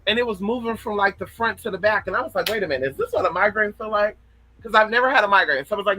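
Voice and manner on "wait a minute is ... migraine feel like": quick, wondering self-question; mildly puzzled. Retold or imitated. Streamer recalls wondering about her first migraine, mildly puzzled. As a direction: retell a moment of mild puzzlement.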